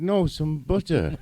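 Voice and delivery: British butter. Retold or imitated. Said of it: "I'll say it in Canadian".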